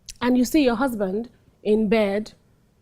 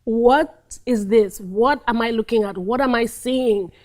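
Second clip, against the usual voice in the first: shock. Shown as a demonstration. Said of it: "The first thing that you experience is, is shock".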